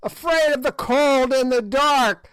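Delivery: high sneering witch; old witch voice. A narrator's reading. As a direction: play the ancient hag taunting the king. Gagool's rant continues.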